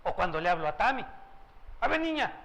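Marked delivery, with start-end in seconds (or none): 1.8-2.3 father to daughter. Retold or imitated. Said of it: "O es otro tono de voz".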